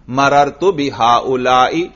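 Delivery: slow مررت بہاؤلائی ending in short "i"; unchanged kasra ending. Shown as a demonstration. Teacher showing the fixed ending, kasra in genitive. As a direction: keep final "i" of بہاؤلائی after مررت. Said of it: "ہر حال میں یہ زیر برقرار".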